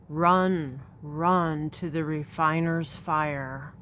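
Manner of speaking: urgent cry to run; all caps shout. Acted. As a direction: call it out in capitals. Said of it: "it has this in all caps".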